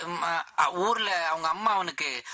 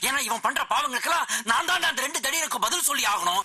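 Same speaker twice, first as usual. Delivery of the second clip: raised, higher angry threats; 7 semitones higher than usual. Acted. Furious man threatening the boy to run away, shouting.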